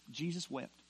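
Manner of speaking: low, soft scripture reading; hushed verse. Acted. Preacher reading the two simple words of the verse, hushed. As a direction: let the two words fall softly.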